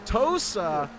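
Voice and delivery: fast, high play-by-play; rising excitement, quick and high; excited commentary. Real, not acted. Commentator calls an overtake attempt.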